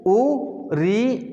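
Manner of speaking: "ऊ, री" stretched very slow; slow recitation. Shown as a demonstration. Teacher reciting the vowel list slowly to the class. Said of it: "अ".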